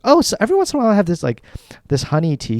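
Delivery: airy fast friend voice. Retold or imitated. Friend tells the doctor her honey habits, breezy and fast. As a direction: play it off like it's nothing. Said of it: "started listing all these things".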